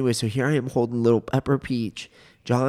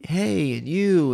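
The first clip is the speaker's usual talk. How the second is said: parrot squawk; 6 semitones higher, slower than usual. Retold or imitated. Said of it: "saying words like".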